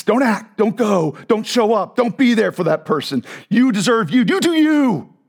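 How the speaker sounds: lightly voiced demon urging you to freeze; demonic voice. Preacher impersonating a demon telling him to stay home. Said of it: "impersonation of demonic voices".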